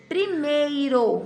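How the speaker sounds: primeiro drawn out syllable by syllable; slow, clear word. Shown as a demonstration. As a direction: stretch primeiro for the kids. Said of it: "teacher says example word slowly".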